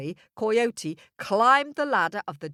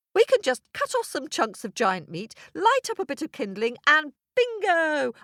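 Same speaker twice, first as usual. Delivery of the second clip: eager; 4 semitones higher, faster than usual. Acted. Coyote excitedly plans a meal.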